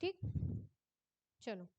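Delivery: normal talking voice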